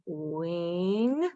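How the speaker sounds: "Math" drawn out as a slow blend. Shown as a demonstration. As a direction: stretch it while blending. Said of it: "Put it all together".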